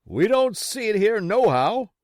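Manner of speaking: high, loud rough answer; pirate reply. Acted. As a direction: call back down.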